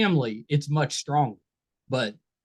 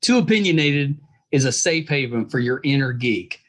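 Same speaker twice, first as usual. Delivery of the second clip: podcast promo read. Acted.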